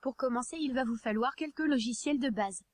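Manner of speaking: even, machine-read text to speech narration; synthetic text to speech voice. Real, not acted. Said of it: "comme je le fais actuellement".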